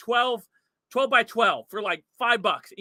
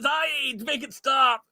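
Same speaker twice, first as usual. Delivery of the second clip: reading super chat; 4 semitones higher, slower than usual. Real, not acted. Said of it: "with the two dollar super chat says".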